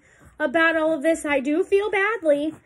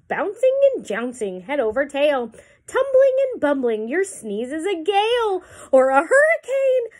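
louder, pleading storybook buffalo; 4 dB louder than usual. Acted. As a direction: complain politely but urgently. Reading aloud to children.

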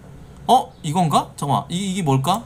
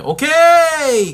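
slow, high, loud "okay!"; excited drawn-out okay; 9 semitones higher, 8 dB louder, much slower than usual. Real, not acted. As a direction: stretch it out, thrilled. Approving the chart, drawn out.

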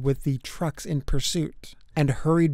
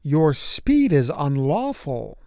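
stern. Acted. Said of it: "telling him sternly".

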